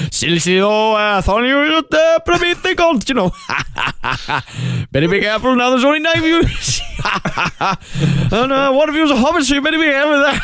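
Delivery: hammed-up North Welsh with little laughs; North Welsh Bard. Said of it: "He doesn't say it like that".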